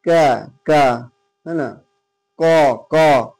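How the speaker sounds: क with the lips spread slightly for a thin sound; thin k sound demo. Shown as a demonstration. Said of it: "दोनों होंठ को हल्का ऐसे फैलाएंगे". (होंठ फैलाकर बारीक क)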